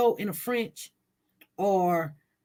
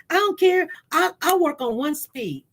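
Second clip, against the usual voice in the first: defiant outburst; 4 semitones higher than usual. Real, not acted. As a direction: toss it off, don't care. Defiant outburst about work pace.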